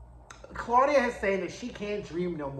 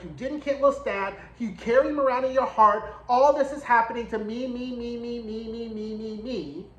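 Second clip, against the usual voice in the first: mocking whine. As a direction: whine the me's away to nothing. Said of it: "called out Louis because she's like".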